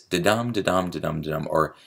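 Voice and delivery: "da-dum" repeated evenly, DUM stressed; regular iambic beat. Shown as a demonstration. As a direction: tap out running iambs, weak "da", strong "dum". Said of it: "So you have this".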